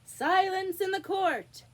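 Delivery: high, loud, slow court call; shrill rabbit crying for silence. A narrator's reading. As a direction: call the court to order loudly. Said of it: "the White Rabbit cried out".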